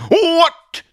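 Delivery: loud high yelp of shock; scandalized, high-pitched outburst; outraged disbelief. Acted. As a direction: react as if to open heresy. Atheist outraged at the heresy.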